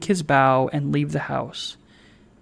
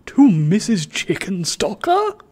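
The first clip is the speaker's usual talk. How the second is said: terrible distinctness; 4 semitones higher than usual. Acted. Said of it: "in the same tone as before".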